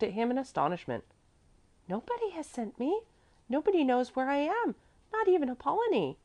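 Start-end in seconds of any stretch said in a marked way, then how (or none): 1.9-6.2 put-on very high child's voice; little girl Mäzli. A narrator's reading. Little girl answering stern gentleman, high child's voice.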